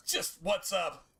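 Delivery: cheery hello to a friend's mom; high friendly greeting. Real, not acted. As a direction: greet her brightly, up high. That's just James's mom.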